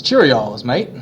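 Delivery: put-on a teacher's terrible British accent as a wealthy Englishman; mock posh British accent; bad British accent. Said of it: "forgive my horrible British accent".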